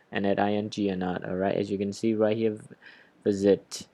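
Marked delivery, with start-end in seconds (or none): 3.2-3.9 "visit" with the beat on VIS; first-syllable stress. Shown as a demonstration. Teacher points out the stress on the first, first-syllable stress. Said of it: "So the stress is on the first".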